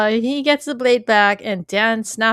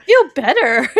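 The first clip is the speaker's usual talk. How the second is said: much louder echo through laughter; amused mock declaration, laughing; 3 semitones higher, 9 dB louder than usual. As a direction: repeat the quote while cracking up. Co-host echoes the quote laughing.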